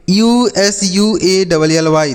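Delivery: letters of usable spelled out slowly, one by one. Shown as a demonstration. Teacher spelling a word for children, slowly letter by letter. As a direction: read out यूएसएबीएलई as separate letters, slowly. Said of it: "इसे हम पढ़ते हैं usually".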